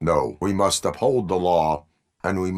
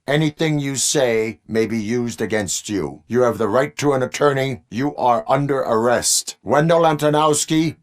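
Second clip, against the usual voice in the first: raised, higher commanding voice; forceful arrest; 7 semitones higher, 5 dB louder than usual. Acted. Officer arresting a suspect and reading rights, loud and commanding. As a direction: call out the rights with loud authority.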